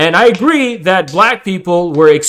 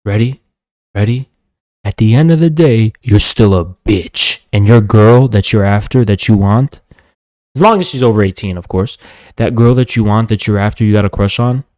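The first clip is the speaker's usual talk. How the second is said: menacing boast; 5 semitones lower than usual. Real, not acted. Boasting to dominate the troll.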